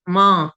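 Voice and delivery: MA with a soft nasalised vowel; soft nasal anusvara. Shown as a demonstration. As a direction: say MA ending softly in the nose. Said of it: "anuswar is a nasal sound". (soft nasal MA)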